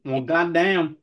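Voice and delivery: put-on Southern twang; mock Southern exclamation with a twang. Host reacting to co-host's objection, mock Southern twang. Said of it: "I'm gonna have the twang".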